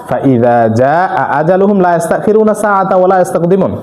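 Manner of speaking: slow, measured Arabic recitation; scripture recitation. Acted. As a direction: recite the verse with lengthened vowels. Quotes a Quran verse in Arabic.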